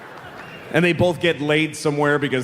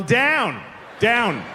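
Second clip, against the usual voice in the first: higher-pitched insistent "down"; slightly raised volume; 5 semitones higher than usual. Shown as a demonstration. Passenger ignoring a question, slightly raised insistent repeat. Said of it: "at slightly above conversational volume".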